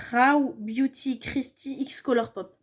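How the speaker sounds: slow English brand name in a heavy French accent. Real, not acted. Vlogger reading an English product name, slow, thick French accent. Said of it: "mon accent anglais absolument horrible".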